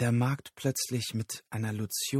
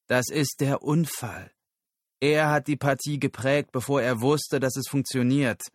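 raised, emphatic explanation in character; insistent captive; 4 semitones higher, 3 dB louder than usual. Acted. Captive explains the accident to Susan, insistent.

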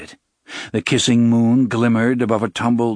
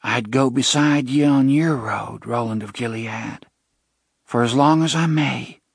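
put-on shy young woman voice; 3 semitones higher than usual. Jenna pledges to Roland.

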